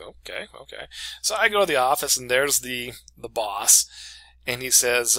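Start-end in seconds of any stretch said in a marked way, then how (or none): 0.0-0.9 re-enacted meek, hushed acceptance; barely voiced, uneasy agreement; quiet compliance. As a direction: go along softly, a little unsure. Meek reaction to being summoned.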